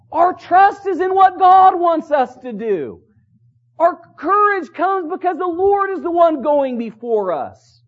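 high, insistent pulpit delivery; forceful preaching. Acted. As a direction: preach it out with conviction.

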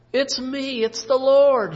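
God booms his answer to Paul; booming declaration. Acted. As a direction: proclaim it as the Lord.

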